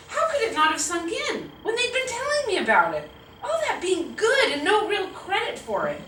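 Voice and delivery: put-on high, indignant kid lament; theatrical high-pitched dismay; exasperated child. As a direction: wail it like a child who feels cheated. Child's exasperated inner outcry.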